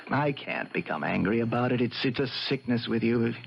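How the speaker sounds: low, softened, weary voice; resigned. Acted. Husband tells wife it's a sickness, resigned. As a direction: give up on anger, low and subdued.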